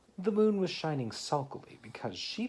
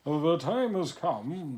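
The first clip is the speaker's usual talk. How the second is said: slow, weighty and louder announcement; grand walrus voice; 6 semitones higher, 6 dB louder, slower than usual. Acted. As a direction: proclaim it slowly like a pompous walrus.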